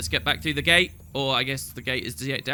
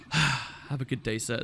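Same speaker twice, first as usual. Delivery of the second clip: soft, slow, lower sign-off; resigned politeness; 5 semitones lower, 6 dB quieter, slower than usual. Acted. Player leaving the deaf councillor, quietly resigned. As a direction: give up and leave politely.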